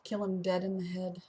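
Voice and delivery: creepy zombie-hunter whisper. Pretend. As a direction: breathe it out with no voice. Zombie-killing aside, whispered.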